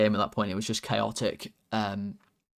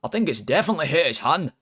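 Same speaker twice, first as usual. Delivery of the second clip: a louder, raised mock Scottish commentator; imitating Ali McCoist's Scottish accent; 5 semitones higher, 6 dB louder, faster than usual. Mocking the pundit on the handball, in a put-on Scottish accent. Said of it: "I'll try and do the accent".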